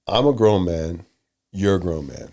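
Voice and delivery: low, measured and reasonable; calm, controlled voice. Shown as a demonstration. One leader reasoning with another man, calm and controlled. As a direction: keep the voice down, man to man. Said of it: "Our voices do not need to get higher than this".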